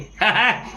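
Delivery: a brief real chuckle; short laugh. Real, not acted. Retelling the colleague's joke, short chuckle. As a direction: laugh at the memory.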